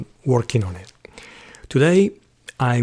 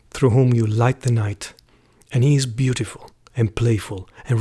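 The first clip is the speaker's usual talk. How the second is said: measured, reverent reading of a prayer poem; slightly subdued recitation with pauses between phrases. Acted. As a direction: read it as a solemn canticle, phrase by phrase. Reads the first poem aloud.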